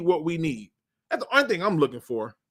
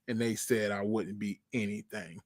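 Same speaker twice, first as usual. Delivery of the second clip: mock self-pity; 11 semitones lower, 12 dB quieter than usual.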